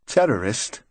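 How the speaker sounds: taken aback, questioning echo; amazed. A narrator's reading. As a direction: repeat it in mild amazement. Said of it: "He sounded amazed".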